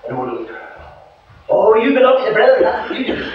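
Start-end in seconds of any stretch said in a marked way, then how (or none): 1.5-3.3 high, loud, quick teasing accusation; knowing old lady. Retold or imitated. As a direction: catch him out like the old dear.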